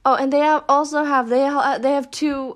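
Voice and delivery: stumbling over words when emotional; stuttering. Real, not acted. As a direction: stutter and restart the phrase. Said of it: "I'm, like, um, stuttering".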